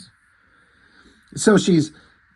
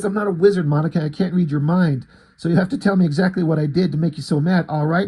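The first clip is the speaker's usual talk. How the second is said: slightly raised, pressing mock rant; exasperated argument; 2 semitones higher, 3 dB louder, faster than usual. He tells Monica he can't read minds, exasperated. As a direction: argue back as the fed-up character. Acted quarrel, he argues back.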